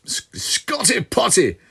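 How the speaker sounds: high, slow Scottish caricature; Scottish character. Acted. Listing his limerick characters, exaggerated Scottish accent. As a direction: draw it out in a high Scottish squawk. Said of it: "I got a Scottish guy called".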